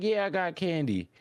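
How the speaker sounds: very high coaxing reply; luring stranger. Retold or imitated. Stranger telling Rudo he has candy, high luring voice. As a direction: answer in a high put-on voice.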